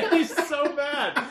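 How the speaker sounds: high, laughing through the words; can't stop laughing while saying it; giggling fit over the words. Real, not acted. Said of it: "Delia's laughing".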